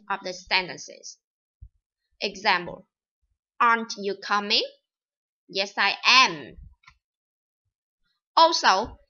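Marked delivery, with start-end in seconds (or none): 3.6-6.5 the word "aren't" and the final "am" both hit firmly; stress on be. Shown as a demonstration. Teacher demonstrating to students: stressed "aren't" and final "am". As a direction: lean on "aren't" in the question, then land hard on "am". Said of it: "the verb be is stressed in negative questions and at the end".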